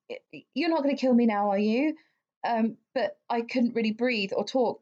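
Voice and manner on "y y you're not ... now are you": stammering fear. Retold or imitated. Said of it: "reached out to him saying".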